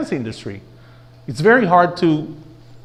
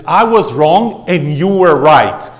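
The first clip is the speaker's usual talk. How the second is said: slow demo line; 6 dB louder, slower than usual. Shown as a demonstration. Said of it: "I know this one is hard".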